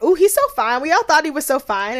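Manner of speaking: mock swoon about a hot guy; gushing Shanice. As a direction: gush over how fine he is. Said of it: "Shanice is like".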